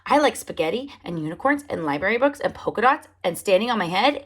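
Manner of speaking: fast, lightly voiced chatter; Wordy Birdie chatter. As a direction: rattle the list off eagerly. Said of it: "talks about what she likes".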